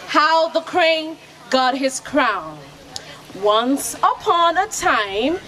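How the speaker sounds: slow, spaced storyteller title; story opening. Acted. Storyteller to children at the festival, slow and grand. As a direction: announce the tale slowly to the children.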